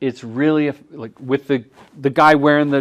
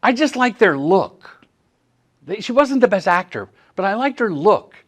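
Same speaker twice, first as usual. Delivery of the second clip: imitating John; 6 semitones higher than usual. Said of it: "He would always say".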